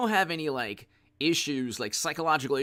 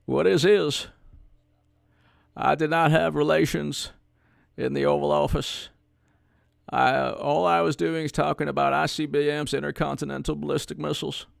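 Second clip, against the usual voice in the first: Bill Clinton impression; 2 semitones lower than usual. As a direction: lightly do the smooth Arkansas politician. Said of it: "I do a pretty good Bill Clinton".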